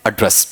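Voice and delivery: एड्रेस with a at the start and in the middle; correct pronunciation. Shown as a demonstration. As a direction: model एड्रेस with both a sounds. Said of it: "शुरू में भी ए और बीच में भी ए".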